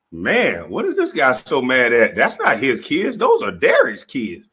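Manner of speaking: a lightly voiced boy, unimpressed; little boy's question. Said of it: "he heard that little boy say".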